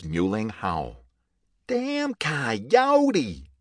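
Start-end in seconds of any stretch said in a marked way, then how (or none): 1.7-3.5 high, loud shout across the trees; calling out. A narrator's reading. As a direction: yell it out angrily at the coyote. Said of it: "the man's voice called out".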